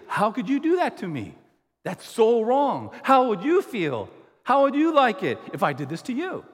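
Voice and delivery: hammed-up hurt indignation, raising the voice; mock indignant outburst. Preacher acting out a person who feels wronged, mock indignant. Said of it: "I'm gonna say".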